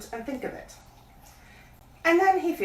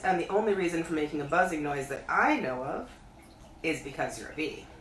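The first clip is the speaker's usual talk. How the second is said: Pooh pondering; 3 semitones lower than usual. Acted. Pooh thinking aloud.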